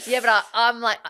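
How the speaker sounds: real laughter spilling into the retold reply; laughing. Real, not acted. Partner laughing while retelling what she told her.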